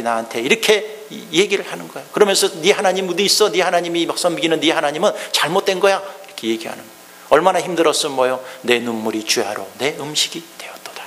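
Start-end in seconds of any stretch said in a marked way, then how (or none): 2.6-6.0 mocking taunt. Preacher voices mocking enemies. 8.6-11.0 whispered lament. Acted. Reads lament verse hushed.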